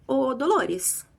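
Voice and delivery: slow knowing boss. Retold or imitated. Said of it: "E aí a Vera fala assim".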